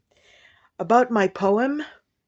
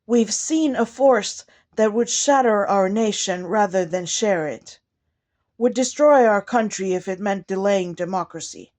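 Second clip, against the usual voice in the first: measured inaugural poem delivery, phrase by phrase; poem recitation; 2 semitones higher than usual. Acted. Poet addressing President and nation with a poem, measured formal recitation. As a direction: recite it formally, stressing key words, falling at line ends.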